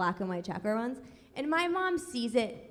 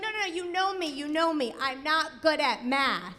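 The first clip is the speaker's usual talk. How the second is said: imitating mom; 4 semitones higher than usual. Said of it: "And then she'd be like".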